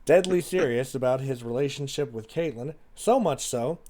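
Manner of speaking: measured letter reading with pauses; reading letter aloud. Acted. Sister's letter to her jailed sibling, read aloud.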